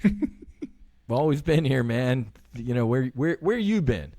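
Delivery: slow, laughing buddy reply; amused reply. Retold or imitated. God answering him, slow laughing buddy reply. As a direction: say it chuckling, like it's obvious. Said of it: "He's like".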